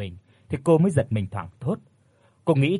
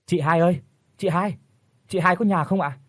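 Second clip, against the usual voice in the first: high, carrying call to a neighbour's house; 5 semitones higher than usual. Acted. Young wife calls out to her neighbour, a raised call. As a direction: call out for her across the yard. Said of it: "thì kêu lên".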